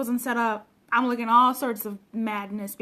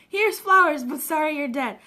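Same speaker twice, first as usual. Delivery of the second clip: mock mourner; 5 dB louder than usual. Mocking a mourner who comes too late, sarcastic and louder. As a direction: hand over the flowers with fake sympathy.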